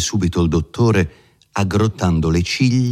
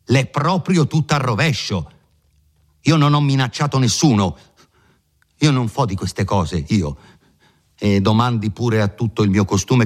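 put-on higher, eager protesting young man; earnest young Renzo; 4 semitones higher than usual. Renzo protesting to the lawyer, higher and earnest. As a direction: plead your innocence earnestly.

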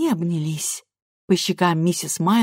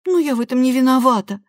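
objecting; 7 semitones higher, 5 dB louder, faster than usual. A narrator's reading. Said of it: "возразила Лиза".

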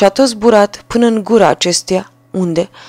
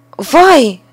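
dismayed carter; 6 semitones higher, 5 dB louder than usual. A narrator's reading. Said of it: "a zis el nevestei sale".

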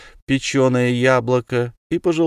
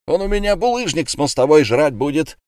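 higher and louder, daring; bellowing threat; 6 semitones higher, 4 dB louder than usual. A narrator's reading. Eulenspiegel dares the tavern to separate them, yelling. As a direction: yell a challenge at the room. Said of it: "заорал".

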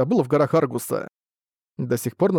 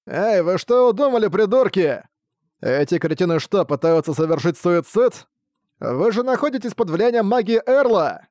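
angry yelling; 5 semitones higher than usual. Acted. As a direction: yell at them, alarmed and mocking. Окровавленные кричат на беглецов. (злобный крик)

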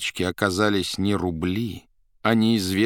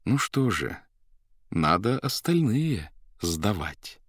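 gentle; slower than usual. Acted. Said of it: "опять-таки мягко добавил".

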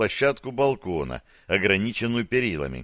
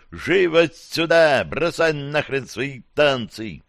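urgent shout; 5 semitones higher, slower than usual. Acted. Urgent order amid summoned monster.

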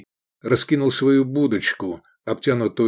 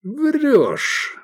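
unsure; 14 semitones higher than usual. Acted. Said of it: "неуверенно сказал Круглоголовый".

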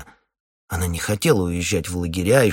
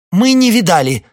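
high, loud answer for all; hasty loud denial; 12 semitones higher, 10 dB louder than usual. Acted. Wife loudly answers the captain for everyone. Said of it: "за всех ответила Марфа".

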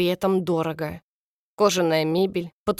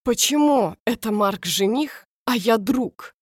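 indignant; 4 semitones higher than usual. Acted. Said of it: "Дан начал возмущаться".

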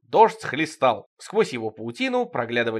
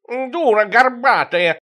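loud, higher, slow; shouted insult; 10 semitones higher, 7 dB louder, much slower than usual. Acted. A neighbor yelling at Evlampiya, loud. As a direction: yell the insult.

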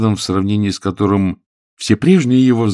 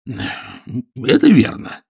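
embarrassed; 4 semitones higher, much slower than usual. Acted. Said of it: "несколько смущённый мистер Беннет".

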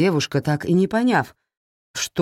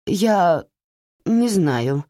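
babbling; 3 semitones higher, much slower than usual. Acted. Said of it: "пролепетала Кэтрин".

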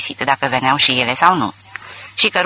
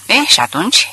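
a higher, sharp burst of irritation, only mildly voiced; violent outburst; 6 semitones higher, 3 dB louder than usual. A narrator's reading. Warner bursting out at Ratcliffe, mildly angry outburst. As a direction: snap the question back, impatient and mildly angry. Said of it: "izbucni Warner violent".

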